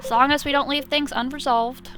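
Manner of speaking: Southern dad voice, lightly done; measured fatherly advice with a hint of Southern; bad Southern accent. Cop explains arguments with his kids, lightly Southern-accented. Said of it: "a bad Southern accent".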